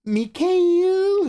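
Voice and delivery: high, loud call across the room; excited high shout of a name. Real, not acted. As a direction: shout his name to greet him. Greeting a chatter by name.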